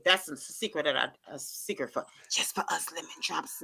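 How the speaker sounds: soft, low, secret-telling; confiding hush. Real, not acted. Telling lemon-drop fans a secret, hushed. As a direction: lean in and keep it secret.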